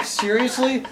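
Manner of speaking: slow, loud, high shout building to a roar; drawn-out, over-the-top movie war cry; mock battle cry. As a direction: bellow it like a hammy warrior.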